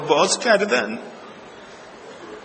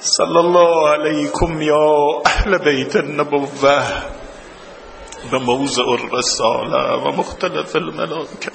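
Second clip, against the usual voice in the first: steady, lower chanted supplication; prayer recitation; 3 semitones lower than usual. Acted. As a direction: lead the congregation in prayer. (دعای آرام و آهنگین)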